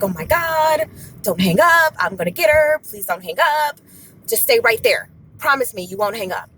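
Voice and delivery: urgent, excited pleading, acted out. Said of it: "very, very, very excited".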